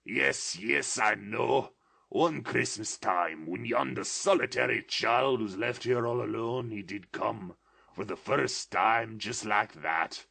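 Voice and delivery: put-on remembering childhood, near tears and laughter; a touch of tears in eager joy; between laughing and crying. A narrator's reading. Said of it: "extraordinary voice between laughing and crying".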